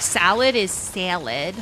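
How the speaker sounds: Midwestern long A. Shown as a demonstration. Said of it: "They have long A vowels".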